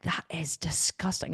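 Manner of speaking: whispered, soft and disgusted; hissed disgust. Retold or imitated. Wife scolding husband over a fart, in a whisper. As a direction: spit it out under your breath. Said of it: "like, really angry".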